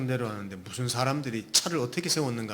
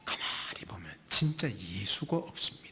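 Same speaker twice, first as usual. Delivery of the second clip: whispered; 5 semitones lower, 6 dB quieter than usual. Real, not acted.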